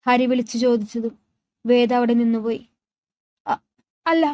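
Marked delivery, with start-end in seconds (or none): 3.5-4.2 faltering, mildly tearful denial; a touch of a choked sob; on verge of tears. A narrator's reading. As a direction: stammer it as if holding back tears. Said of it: "അവൾ വിതുമ്പിക്കൊണ്ട് പറഞ്ഞ്".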